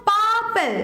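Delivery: পার্পল with পার stretched and পল falling; stress on first syllable. Shown as a demonstration. Teacher telling students to look, পার্পল stressed on পার. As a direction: put the weight on পার in পার্পল. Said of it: "পারের ওপর দেখো বেশি জোর পড়ছে".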